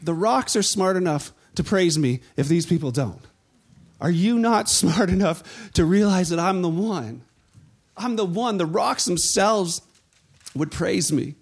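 Jesus retorting. Retold or imitated. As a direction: answer them firmly, dryly. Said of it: "He's like".

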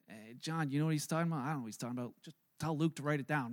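confer under your breath, baffled; puzzled disciples. Acted. Disciples privately asking John what he's talking about, low and puzzled. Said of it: "And they're like".

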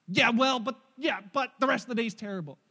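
put-on loud whiny kid digging in; a sulky boy who won't give in; stubborn child. Son voiced in retold quarrel.

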